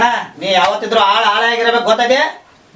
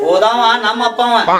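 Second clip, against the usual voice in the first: crying; slower than usual. Acted. Son mourns his father.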